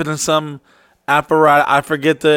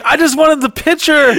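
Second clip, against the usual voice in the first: high-pitched mock girlfriend voice; imitated girlfriend; 10 semitones higher than usual. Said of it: "Your girl's like".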